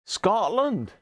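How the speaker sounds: put-on slow, half-hearted Scottish accent; a hammed-up Scottish accent that barely lands; bad Scottish accent. Reading the Edinburgh brewery label in a weak mock Scottish accent. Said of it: "Don't do the accent, Graham. You cannot do accents".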